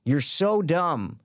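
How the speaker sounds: very slow, drawn-out put-down; scornful. Retold or imitated. Telling the guy in the video off, slow and scornful. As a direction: spell it out slowly to someone foolish.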